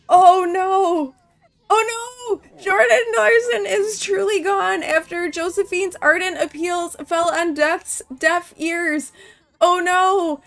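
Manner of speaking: high, loud, hammed-up wailing; dramatic lament. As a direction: mourn theatrically over a lost character. Mourning game character's death.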